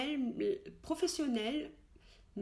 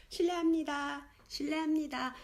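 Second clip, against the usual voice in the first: 실례합니다 called up high; calling out; 6 semitones higher, much faster than usual. Shown as a demonstration. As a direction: hail a shop assistant. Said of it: "À toi".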